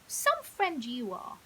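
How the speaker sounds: slow, sulky reproach; annoyed. Acted. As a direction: drag it out, wounded. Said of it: "said a still annoyed Leo".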